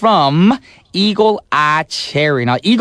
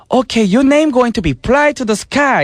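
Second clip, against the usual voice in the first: imitating a bossy label exec, higher; record label boss; 9 semitones higher than usual. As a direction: hand down the name like a label boss. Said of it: "the record label was like".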